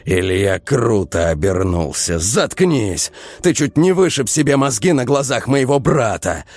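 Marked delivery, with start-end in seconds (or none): 2.2-6.4 angry outburst. Acted. Ilya furious at Vova.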